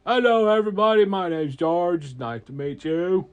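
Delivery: high, loud hello that settles down; dragon's big hearty introduction; booming friendly greeting. Acted. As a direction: call out eagerly to a crowd. Dragon repeats greeting for crowd.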